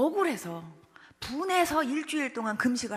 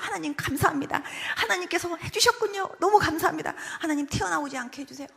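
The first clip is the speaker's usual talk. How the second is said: higher, louder, grateful prayer; fervent thanks; 5 semitones higher, 5 dB louder than usual. Retold or imitated. Preacher re-enacting her thanks to God, fervent and excited. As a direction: cry out thanks in relief.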